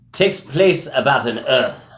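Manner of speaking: talking around a sunflower seed; words slowed by a seed in the mouth; mouth full. Real, not acted. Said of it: "sunflower seed in my mouth".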